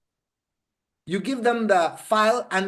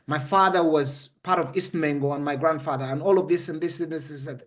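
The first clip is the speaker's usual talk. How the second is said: lower, matter-of-fact demo of dictating a memoir; sample book dictation; 4 semitones lower than usual. Shown as a demonstration. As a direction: recite it to camera, pitched a little lower. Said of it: "and I say".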